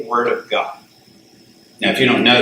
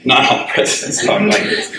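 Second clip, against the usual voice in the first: laughing correction; 3 semitones higher than usual. Real, not acted. Laughing at own overstatement.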